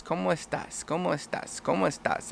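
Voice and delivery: imitating a learner reciting by rote; rote practice. Learner practicing before a trip, soft rote repetition. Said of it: "all you've been practicing is".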